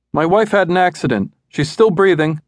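high, desperate rush of words; a scared husband pleading for help; husband telling the dispatcher, frantic and high. A narrator's reading. Frantic husband calling 911.

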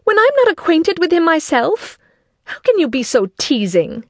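high-pitched, exasperated exclamations; exasperated wife. A narrator's reading. Wife protests at her teasing husband, high and exasperated. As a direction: protest as if teased past bearing.

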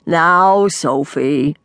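lightly voiced patronizing dad; a hint of fatherly reproof; mildly scolding father. A narrator's reading. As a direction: chide gently, as over uneaten vegetables. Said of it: "as if the topic was skipping vegetables".

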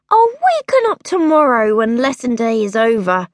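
put-on a girl refusing to get up; sleepy stubborn princess. A narrator's reading. Girl under her covers, determined to sleep on. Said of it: "she decided".

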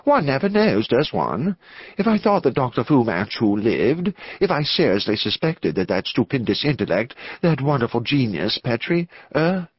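lightly voiced hesitant clergyman; nervous, intense clergyman. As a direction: think aloud with a touch of nervous unease.

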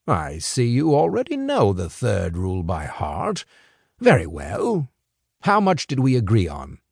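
put-on a sly older fixer, amused and in control; smooth crime boss. Crime boss lecturing two young couriers, sly and amused. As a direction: toy with the boys like a patient boss.

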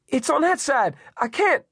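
high, panicked woman's cry; Eddie screaming. A narrator's reading. Elderly woman cut off by flames, screaming. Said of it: "Eddie screamed".

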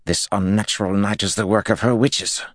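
high, tense lord's voice. A narrator's reading. Unhinged lord declaring to his captains, high and tense.

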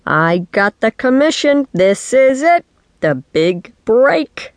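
high, rising excitement; elated announcement. A narrator's reading. Dad tells his child about the commission, elated. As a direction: punch out each phrase, stretching the last.

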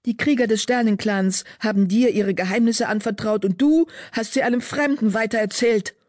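high, heated spitting anger; angry. A narrator's reading. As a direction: lash out, insulted and furious. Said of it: "Wind fauchte".

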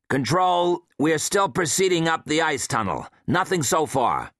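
intercom transmission; radio voice. Acted. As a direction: report calmly over the intercom. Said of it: "The intercom crackled. Austin's voice answered".

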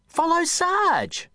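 slow, high commanding tone; slow order. Acted. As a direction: command him slowly. Jack gives an order.

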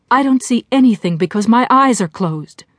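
put-on lightly childish, frightened protest; trembling, childish. Jessie answering the voice in her head, trembling and childish. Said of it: "she said in a trembling, childish voice".

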